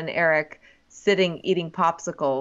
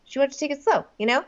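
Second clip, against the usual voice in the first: doing Joe; 2 semitones higher, faster than usual. Retold or imitated. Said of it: "now I'm kinda doing Joe".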